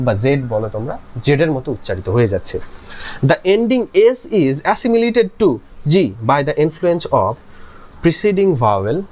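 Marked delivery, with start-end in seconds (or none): 3.3-9.0 slow, clear dictation for notes; dictating slowly. Shown as a demonstration. Teacher dictates the rule for students' notes, slowly. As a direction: read each word out so they can write it.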